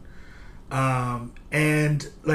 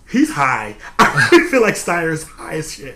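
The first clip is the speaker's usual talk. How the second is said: laughing; slower than usual. Real, not acted. Laughing about Steyer.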